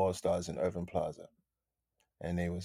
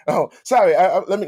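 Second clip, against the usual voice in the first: sudden flustered apology; 10 semitones higher, 12 dB louder, faster than usual. Pretend. Acting out finding the wrong room.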